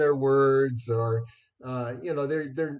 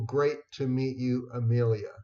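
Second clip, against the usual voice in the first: a warm reply that says Amelia; friendly greeting. Shown as a demonstration. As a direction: greet warmly, using the name Amelia. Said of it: "reply with a simple".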